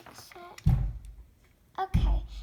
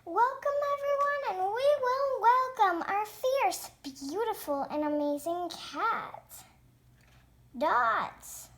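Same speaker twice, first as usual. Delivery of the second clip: loud, grand stage announcement; show host; 3 semitones higher, 6 dB louder than usual. Pretend. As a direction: build up to the act's name like an emcee. Hosts the pretend pet show.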